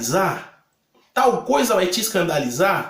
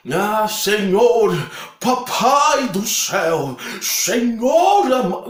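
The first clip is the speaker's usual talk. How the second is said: exaggerated pious prayer; 2 semitones higher, much slower than usual. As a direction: ham up an overly solemn prayer to God. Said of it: "tipo assim, um exemplo". (oração solene e arrastada, em tom de deboche)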